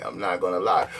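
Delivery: shouted admission, deep and forceful; hammed-up yell of the same admission; mock shout.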